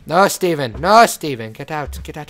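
loud, firm telling-off; loud mock-stern reprimand; scolding. Scolding game animal in house.

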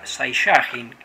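"Saiyajin" stressed on the middle syllable, sai-YA-jin; mispronounced Saiyajin. Shown as a demonstration. Player recalling his mistake, "Saiyajin" said sai-YA-jin. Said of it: "porque lo dije mal".

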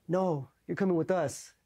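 high, drawn-out imitation of a cop; mock MP order. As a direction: imitate an officer overruling protests. MP orders suspects along.

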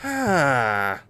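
drawn-out falling sigh; long sigh. Real, not acted. Player to himself mid-game, long sigh. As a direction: let out a long sighing breath.

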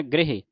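ਗ੍ਰਹਿ said quickly with a short half r; ਗ੍ਰਹਿ quick and compact; pronunciation demo. Shown as a demonstration. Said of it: "ਗ੍ਰਹਿ, ਇਸ ਤਰ੍ਹਾਂ ਪੜ੍ਹਨਾ".

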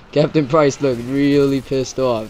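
slow, amused delivery after a giggle; real amusement in the voice; still laughing. Real, not acted. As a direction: say it while recovering from laughter. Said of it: "I'm still laughing right now".

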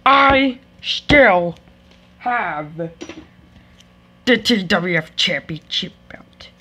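wrestler promo voice. Pretend. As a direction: brag like a heel wrestler. Wrestler heel promo, low voice.

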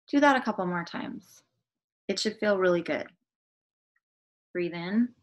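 measured guided-meditation delivery with pauses. Acted. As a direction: lead them gently into the breathing.

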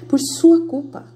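mild mock telling-off; accusing, retold reproach; husband blaming. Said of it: "meu marido chega e fala pra assim".

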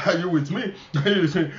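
chuckling between the questions; laughing. Real, not acted. Preacher asking congregation if they follow, laughing. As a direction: check in with an amused chuckle.

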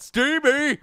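high, drawn-out silly cry; odd silly delivery. Pretend. Player echoing his own cooking line, silly high cry. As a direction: squeal the word out long and high. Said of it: "I don't know why I said it like that".

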